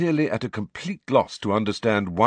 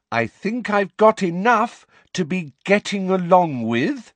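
drawn-out, louder and higher; loud, slow voice; 11 semitones higher, 5 dB louder than usual. A narrator's reading. Umbridge talking down to Hagrid, loud and slow. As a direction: speak slowly as if to a child. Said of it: "that loud, slow voice".

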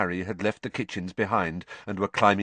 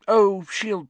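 doubtful; 11 semitones higher, 6 dB louder than usual. A narrator's reading. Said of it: "she sounded a bit doubtful".

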